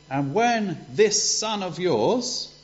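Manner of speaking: put-on older son scorning his brother; resentful. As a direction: spit out "son of yours" with disdain. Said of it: "he was really angry".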